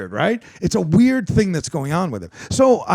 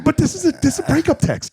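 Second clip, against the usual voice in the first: indignant, loud; 13 semitones higher, 4 dB louder than usual. Real, not acted.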